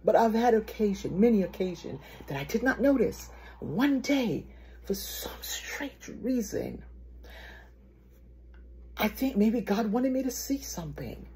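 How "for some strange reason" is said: slow, whispered wondering; soft, drawn-out hush; hushed aside. Real, not acted. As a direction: drop to a slow, mysterious whisper. Setting up a puzzling discovery.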